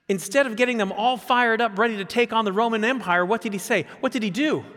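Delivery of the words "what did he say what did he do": usual speaking voice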